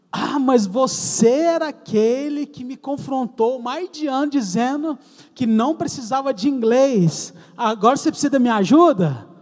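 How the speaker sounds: mild imitation of an indignant teacher; scolding teacher. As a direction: rub it in, reproachful. Teacher scolding the former rebel.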